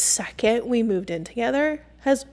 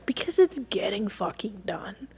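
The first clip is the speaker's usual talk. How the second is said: whispered aside, softer; under her breath; 6 dB quieter than usual. Real, not acted. Telling viewers why she lets it go, whispered. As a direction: mutter it half to yourself.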